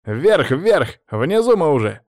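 loud, insistent call; urgent command. Acted. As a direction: urge him upward hard.

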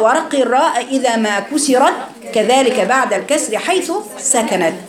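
slow, measured verse recitation; recited rule in verse; poem recitation. Acted. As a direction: chant the tajweed verse steadily.

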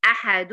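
slow أحد ending in a clear resting n: ahadun; tanween as silent noon. Shown as a demonstration. Teacher spelling out tanween for a student, أحد pronounced ahadun with still n. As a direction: say أحد as "ahadun", closing on a vowelless n. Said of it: "النون عليها سكون".

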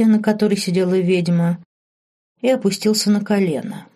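ordinary delivery

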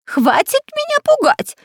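whiny cry. A narrator's reading. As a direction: shout it, close to tears. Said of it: "закричал плаксивым голосом шпион Дырка".

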